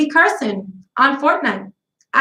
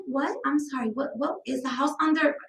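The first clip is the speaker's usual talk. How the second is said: groggy confusion; 2 semitones higher, 9 dB quieter than usual. Retold or imitated. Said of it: "and you're like".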